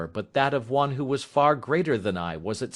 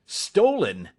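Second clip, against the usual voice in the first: indignant cry; 4 semitones higher than usual. Acted. Accused son crying out in shocked disbelief. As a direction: throw the word back, stunned. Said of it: "he cried".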